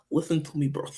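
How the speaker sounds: hushed fake Russian accent; whispered Russian accent. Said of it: "It's my Russian accent".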